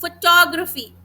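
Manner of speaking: फोटोग्राफी with a slight break after फोटो; slight pause mid-word. Shown as a demonstration. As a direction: say फोटो, pause lightly, then ग्राफी in फोटोग्राफी. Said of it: "एक हल्का सा pause था".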